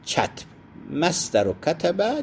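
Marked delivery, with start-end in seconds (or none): 0.0-0.5 کتب said with a short 'a' after the opening kaf; fatha on kaf. Shown as a demonstration. Teacher showing students the vowelling of the term, کتب with fatha. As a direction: say کتب as one syllable, 'katb', with an open a. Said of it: "به فتح الکاف".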